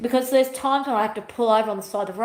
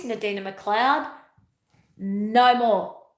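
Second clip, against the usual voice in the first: slow, firm commanding voice; a hint of a divine command; God's voice; slower than usual. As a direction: lay down the law, slowly. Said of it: "And God's saying".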